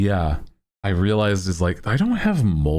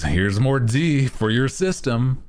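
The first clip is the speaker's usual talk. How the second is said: a hint of a bossy doctor, raised; lightly voiced doctor pushing vitamins, a little higher; mock doctor's orders; 6 semitones higher than usual. Doctor prescribing an elixir to a pale patient, lightly mocked. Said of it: "Doctor's orders".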